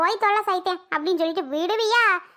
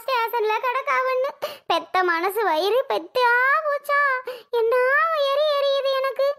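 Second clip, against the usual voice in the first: tearful lament; 3 semitones higher than usual. Acted. Mother lamenting her arrested daughter, tearful. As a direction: lament through tears, voice raised in pitch at times. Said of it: "எதுக்கு இப்ப அழுதுட்டு இருக்கியா".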